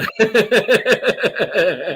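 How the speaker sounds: loud high cackling laugh. Real, not acted. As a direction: crack up. Laughing at boomerang joke.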